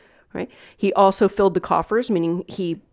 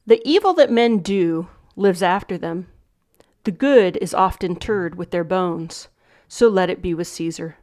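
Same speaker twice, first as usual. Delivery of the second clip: Shakespeare recitation. Shown as a demonstration. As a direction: read it out as a solemn verse line. Teacher reads monologue lines.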